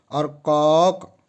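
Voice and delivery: कॉक said slowly with the o held long; teacher stretches कॉक to show length; slow vowel demo. Shown as a demonstration. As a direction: draw out the o in कॉक deliberately. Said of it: "फिर टॉट longer है".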